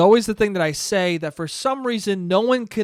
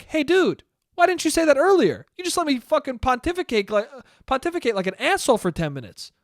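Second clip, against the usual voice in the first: higher, mock-exasperated self-quote; exasperated reply; 5 semitones higher than usual. To his accountant friend, mock-exasperated and raised. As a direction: toss it back at him, half joking.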